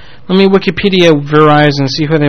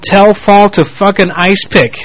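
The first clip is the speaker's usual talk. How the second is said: slow quoted message; 4 semitones higher, slower than usual. Retold or imitated. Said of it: "The Dead says this, quote".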